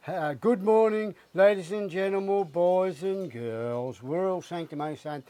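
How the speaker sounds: slow, preachy mock megaphone announcement; mocking the ferry worker's sanctimonious megaphone voice. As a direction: imitate a smug ferry announcer over the megaphone. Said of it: "in a real sanctimonious vo-, voice said".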